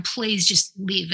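slow, pleading "Please just live."; a touch of desperation, drawn out; mild desperate plea. Retold or imitated. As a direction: beg them slowly to just live. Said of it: "desperately going".

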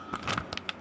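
long tired sigh out; annoyed exhale; irritated sigh. Real, not acted. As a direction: let out a fed-up sigh. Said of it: "kinda irritated".

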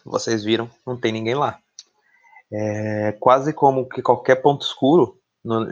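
slow, ominous scene setting; game master narration. Acted. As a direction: draw them into a creepy place slowly. GM sets a creepy scene.

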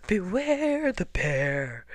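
slow, looming bear warning; growly bear. A narrator's reading. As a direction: growl it slowly, closing in. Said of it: "and closer".

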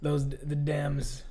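mock conspiracy radio rant; hammed-up paranoid host ranting; Alex Jones impression. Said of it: "a really bad Alex Jones impersonation".

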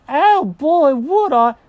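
high, loud eager burst; cartoon cat thrilled, pitched high; delighted cat. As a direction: jump at the offer excitedly. Jenkins delighted by offer.

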